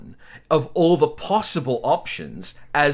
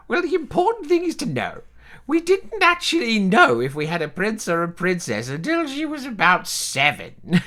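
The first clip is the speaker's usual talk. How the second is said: put-on higher, rambling elderly relative; 4 semitones higher than usual. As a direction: play a doddering old relative. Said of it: "this is a voice I'm actually comfortable with".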